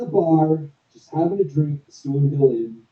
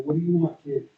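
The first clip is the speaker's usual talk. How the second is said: gentler, softer reread; nicest way possible; 4 dB quieter than usual. Acted. Dwarf asking the boy kindly what he wants, softer. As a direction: ask kindly, like talking to a child. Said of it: "In the nicest way possible".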